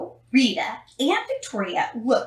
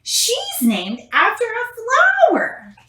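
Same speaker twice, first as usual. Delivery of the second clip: put-on high, slow sneering girl; snooty classmate; 12 semitones higher, 5 dB louder, slower than usual. A narrator's reading. Victoria sneering at Chrysanthemum to the teacher, high and slow. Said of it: "said Victoria".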